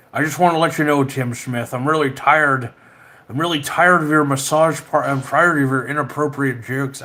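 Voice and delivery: put-on accent, mock scolding; wobbly impersonation of a famous statesman; Richard Nixon. Streamer telling off a chatter over jokes, in impersonated voice. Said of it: "I sound like Richard Nixon now".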